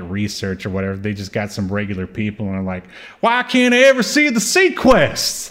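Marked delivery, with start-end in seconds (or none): 3.2-5.5 high, put-on complaining viewer voice; whiny focus group viewer. Mocking fans who want to see the sub, high whiny complaint. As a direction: whine it like a fed-up fan.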